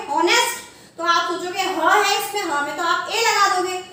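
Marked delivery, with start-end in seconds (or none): 0.1-0.6 हॉनेस्ट with the H voiced at the start; wrong pronunciation. Shown as a demonstration. Teacher warning of the mistake, हॉनेस्ट mispronounced with H. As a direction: misread हॉनेस्ट as "HON-est". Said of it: "अगर आप इसका गलत pronunciation".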